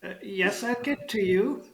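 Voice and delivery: put-on high old goblin voice; elderly goblin. Goblin putting off the next customer, high elderly goblin. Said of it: "there is an elderly goblin".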